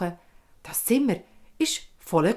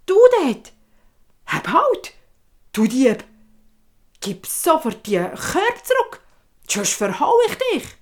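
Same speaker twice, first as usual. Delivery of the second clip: loud angry yelling at a thief; a boy yelling stop thief; angry shouting boy; 4 semitones higher, 6 dB louder than usual. Acted. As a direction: shout him down, furious. Boy catches thief dwarf.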